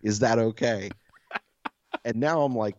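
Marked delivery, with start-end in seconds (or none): 0.0-0.9 careful, slow polite announcement; mock-courteous request for permission. Most polite burglar asks to come upstairs, politely. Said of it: "most polite fucking burglar ever".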